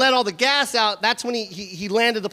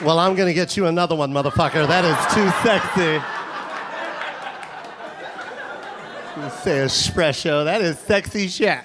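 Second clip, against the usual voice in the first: low growl; 7 semitones lower than usual. Acted. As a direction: savour it in a deep voice. Comedian's lusty reaction to doorman.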